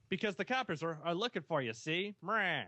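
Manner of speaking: lightly voiced movie gangster; hint of a wiseguy lawman with a tagged-on sneer; old-time gangster. Warning seat belt lawbreakers about coppers, mock gangster voice.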